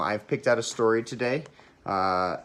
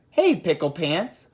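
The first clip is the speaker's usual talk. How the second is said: a mother calling out across the yard; mock holler to her boy; mom hollering; 6 semitones higher, 4 dB louder, slower than usual. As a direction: call him in, louder and higher. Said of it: "hollered Mama".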